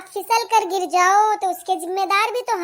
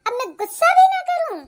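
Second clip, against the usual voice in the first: higher, louder indignant snap back; angry retort; 7 semitones higher, 3 dB louder than usual. Acted. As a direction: bite back at the mother-in-law, fed up. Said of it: "इतना गुस्सा क्यों कर रही हो". (गुस्से में ऊँची आवाज़ में पलटकर)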